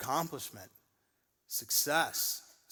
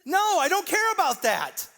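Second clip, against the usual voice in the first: Jesus voice; 12 dB louder than usual. Retold or imitated. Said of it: "And he's like".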